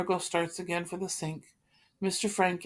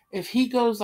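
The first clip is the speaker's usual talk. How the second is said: defiant; 6 semitones higher, 6 dB louder than usual. Acted. Peter's ultimatum.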